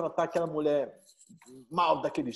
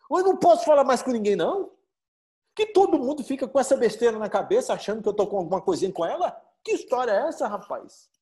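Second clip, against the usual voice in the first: louder, higher, fast defensive outburst; indignant protest; 5 semitones higher, 4 dB louder, faster than usual. Acted. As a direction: get worked up denying it. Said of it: "Fica nervoso, fica bravo".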